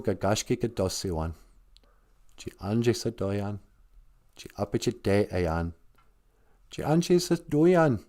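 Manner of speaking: prayer in Ojibwe. Shown as a demonstration. Asked by the elder to pray in Ojibwe, solemn recitation. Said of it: "I wanna hear you say it in Ojibwe".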